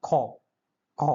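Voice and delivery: খ said alone as an aspirated "kho"; demonstrated pronunciation. Shown as a demonstration. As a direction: sound out খ slowly as a separate syllable, "kho". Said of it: "এটার উচ্চারণ হচ্ছে". (খ আলাদা করে স্পষ্ট উচ্চারণ)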